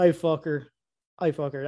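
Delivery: Southern accent. Shown as a demonstration. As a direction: show off a casual Southern accent. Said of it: "Southern accent. If I really".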